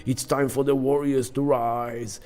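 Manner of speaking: lightly voiced war god's rallying cry; a hint of a war herald. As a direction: declaim a call to arms, starting loud. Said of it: "The god of war is blowing the horn of war".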